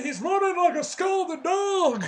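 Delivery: drawn-out, high, loud commentator holler; loud imitation of a wrestling commentator. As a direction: holler it like an excited commentator, stretching the words. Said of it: "As J R would often say".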